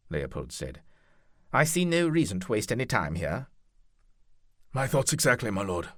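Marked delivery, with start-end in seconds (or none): 1.5-3.5 lordly commander, louder voice; commanding duke. Acted. 4.7-5.9 higher, louder deferential captain; knight captain voice. Acted. Franco agreeing.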